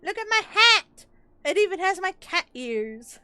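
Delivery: high, loud delighted squeal; excited. Real, not acted. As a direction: gush over the new hat. Finds a hat she loves.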